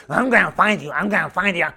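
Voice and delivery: lightly mimicked pestering kid; Bobby. Obsessed camper to his pastor, mildly mimicked insistence. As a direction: repeat it like an obsessed, goofy boy. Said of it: "he's like".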